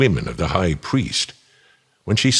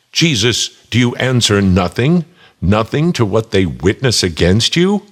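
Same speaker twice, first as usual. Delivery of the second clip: demanding; 3 semitones higher, 5 dB louder than usual. Acted. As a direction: press him hard for an answer. High priest demanding an answer.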